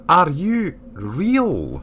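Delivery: very slow, spelled-out question; repeated question. Acted. Repeats it after "beg your pardon.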